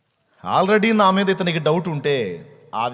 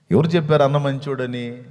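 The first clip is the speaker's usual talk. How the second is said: louder, indignant repeat of the question; challenging retort; 5 dB louder than usual. Retold or imitated. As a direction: throw the question back hard. (గట్టిగా నిలదీసే ప్రశ్న)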